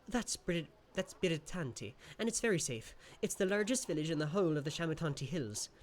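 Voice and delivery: the imp boasting about the village; lightly voiced sprite. Creature describes village.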